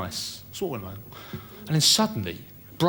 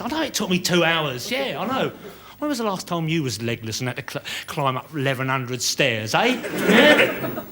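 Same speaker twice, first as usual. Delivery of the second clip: a tenant ringing the architect at two thirty in the morning; phone call; 5 semitones higher than usual. Pretend. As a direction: ring up the architect at night, insistent.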